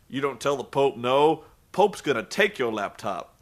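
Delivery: low-pitched impression of a grumbling wrestler; lightly voiced Pope, talking to himself in a low register; muttering Pope. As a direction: imitate a wrestler's low self-talk. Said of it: "the Pope starts muttering to himself".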